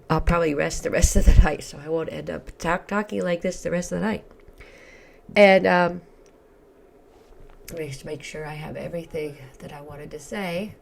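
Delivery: hoarse, croaky tired voice; frog voice. Real, not acted. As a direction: talk through a croaky throat. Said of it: "sorry for my frog voice".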